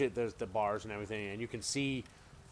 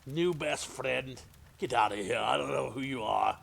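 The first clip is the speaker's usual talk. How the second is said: annoyed prisoner; 4 semitones higher, 5 dB louder than usual. Acted. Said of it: "he's all".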